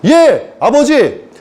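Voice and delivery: high, slow, obedient angel voice; drawn-out high yes, Father; eager angel reply. Acted. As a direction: answer God like a dutiful angel. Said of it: "이랬다고".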